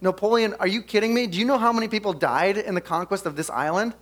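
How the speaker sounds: mock outraged protest; upset generals. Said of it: "so ridiculously upset".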